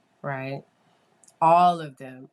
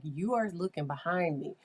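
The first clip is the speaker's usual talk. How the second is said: more assertive; 6 semitones higher than usual. Retold or imitated. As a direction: pitch jumps higher as a firm demand. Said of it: "I would get a little bit more assertive".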